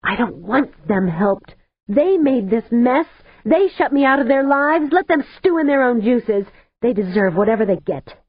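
crying but vengeful, no mercy; tearful bitter rage. A narrator's reading. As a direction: let the bitterness pour out. Face streaked with tears, bitter.

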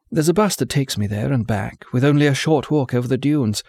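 put-on cheerful girl, a touch nervous; lightly voiced young woman. Vesper speaks, cheerful then faltering.

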